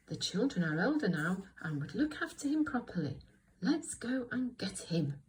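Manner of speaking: lightly voiced little bear; a hint of a small character voice. Shown as a demonstration. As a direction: read it carefully with a touch of little voice. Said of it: "Little Bear, little voice".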